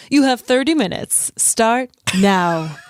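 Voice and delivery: lightly voiced self-adoring teacher; a hint of TV news presenter; Gilderoy Lockhart. Lockhart starts the test for his class, lightly voiced smug character. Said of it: "love your Gilderoy Lockhart voice".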